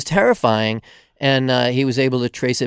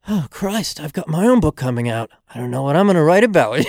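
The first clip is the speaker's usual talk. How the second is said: mock British accent, a bit higher; hammed-up British accent; bad British accent; 5 semitones higher than usual. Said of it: "it's terrible British accent".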